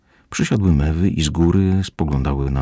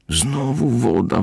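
slow, higher weary sigh of the words; a sighed complaint, slow and higher; 8 semitones higher, slower than usual. Acted. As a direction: sigh it out, fed up. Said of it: "westchnął Morfeusz".

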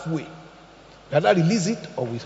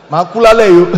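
mock dramatic caller; 15 dB louder than usual. Mocking a fake suicide caller.

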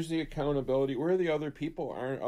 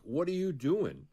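raised, slow, mock challenging bully; bullies' challenge; 5 semitones higher, slower than usual. School bullies demanding an answer from the kid, mock challenging. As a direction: bullies in the hallway confront him, slow and higher. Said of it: "they were all like".

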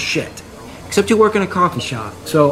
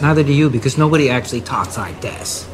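mocking affected voice. Customer shows barista how annoying it is, mock affectation. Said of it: "today I chose to talk like this".

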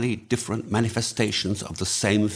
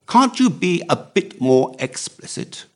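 higher-pitched, exasperated plea; exclaiming; 9 semitones higher, 4 dB louder than usual. A narrator's reading. Algy pressing Drummond for details, exclaiming. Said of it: "cried Algy".

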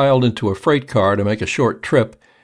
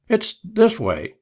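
much higher, slow, hesitant start; nervous restart; 12 semitones higher, slower than usual. A narrator's reading. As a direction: begin again, nervous and drawn out. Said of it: "began Turkey Neck again".

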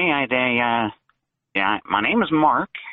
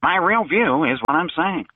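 fake voice; 3 semitones higher than usual. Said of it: "you're doing a fake voice".

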